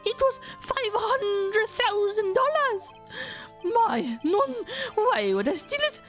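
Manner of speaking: very high, coy French chef voice; French accent. Acted. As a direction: play a timid girl in French accent. French chef, timid then defensive.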